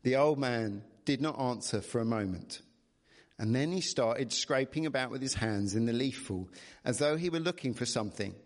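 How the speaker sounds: measured bedtime-story reading; storybook narrator; story narration. A narrator's reading. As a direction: read the tale aloud expressively. Reads the story aloud.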